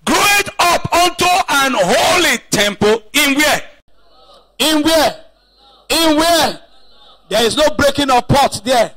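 rising, fervent sermon delivery; emphatic pulpit preaching. Acted. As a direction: preach it out to the congregation. Preaching from Ephesians.

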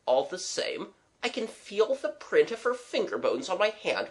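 mildly anxious, earnest pleading; worried gentleman friend. Acted. Young man worrying his boss will hear, flustered.

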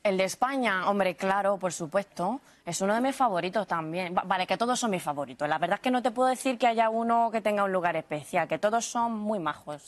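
a light Castilian accent; Spanish accent. Shown as a demonstration. Guest answering the host in a light Castilian accent. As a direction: chat like a Madrid local. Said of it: "El español también lo tienes".

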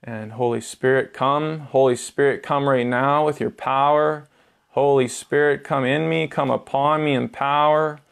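insistent, repeated calling on the Spirit; earnest plea to the Holy Spirit; invocation prayer. Acted. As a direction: pray with rising fervor, in measured phrases.

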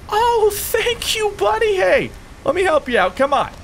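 squeaky high cartoon voice; high silly voice. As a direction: pitch way up, goofy. Voicing a buddy in game.

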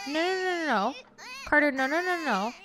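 frantic pleading; panicked no's. Real, not acted. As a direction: panic as it goes wrong. Panicking as baby is neglected.

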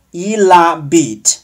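il habite run together as "ee-la-BEET"; slow model of liaison in il habite; linked pronunciation. Shown as a demonstration. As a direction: link the l into habite, silent h. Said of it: "这里要连读".

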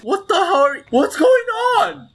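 high shouting through laughter; laughing disbelief. Real, not acted. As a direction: howl in shocked amusement. Bizarre glitch, laughing disbelief.

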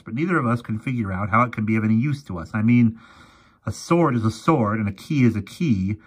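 lightly voiced grumpy old professor. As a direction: explain it gravely, an old scholar.

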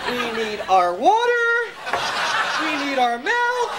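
put-on slow, drawn-out French accent. Teacher warming the class up, French accent. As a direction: stretch each phrase in mock French. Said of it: "let's go to the French accent".

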